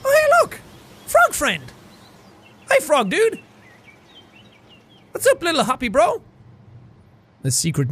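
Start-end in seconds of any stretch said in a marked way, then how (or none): 0.0-0.6 high, loud squeal of joy; delighted squeal. Acted. Hero spots a frog and squeals with delight. 1.0-6.2 high, gushing greeting to a frog; excited baby talk. Acted. Hero gushes a high greeting at a frog.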